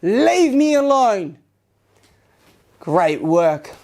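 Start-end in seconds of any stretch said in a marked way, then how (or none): 0.0-1.4 loud command. Shown as a demonstration. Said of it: "loud as you can".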